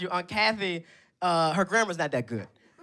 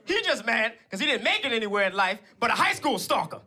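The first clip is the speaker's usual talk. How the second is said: lightly voiced stepmom, raised pitch; 2 semitones higher than usual. Stepmom answering her son's online hater, lightly voiced comeback. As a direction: imitate a stepmom defending her son. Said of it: "And my stepmom, she goes".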